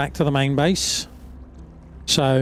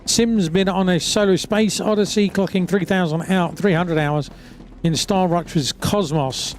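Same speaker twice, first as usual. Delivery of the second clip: newscast read. Acted. Reads a newscast update.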